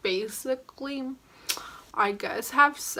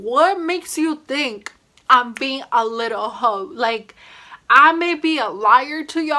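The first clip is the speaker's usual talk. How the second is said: loud, higher, outraged protest; indignant inner retort; 3 semitones higher, 8 dB louder than usual. Retold or imitated. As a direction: snap back in your head.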